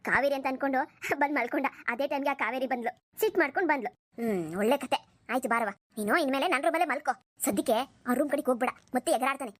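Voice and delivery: low-pitched motherly voice, brushing it all off; an older mother calming her son and daughter-in-law; mother telling her son not to make a fuss; easygoing mother. Acted. Mother-in-law soothing everyone.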